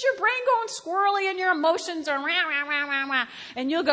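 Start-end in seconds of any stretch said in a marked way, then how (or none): 2.2-3.3 jabbering "rah" noises; mock emotional clamor. Brain going squirrely with emotions, mock clamor. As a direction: imitate noisy, yammering emotions.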